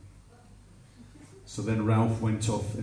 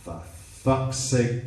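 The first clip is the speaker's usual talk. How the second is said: slow, drawn-out exasperation; exasperated; slower than usual. Retold or imitated. Girlfriend losing patience with shaken man, slow exasperation. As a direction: draw it out with patience gone. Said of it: "she changed her tone of voice".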